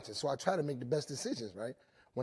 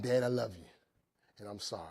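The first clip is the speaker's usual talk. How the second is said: son's apology; 5 semitones lower, 4 dB quieter than usual. Retold or imitated. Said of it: "he said".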